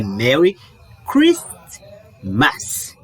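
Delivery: "Merry Christmas" spoken slowly, word by word; careful pronunciation. Shown as a demonstration. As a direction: split "Merry" and "Christmas" clearly. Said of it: "Pronúncia?".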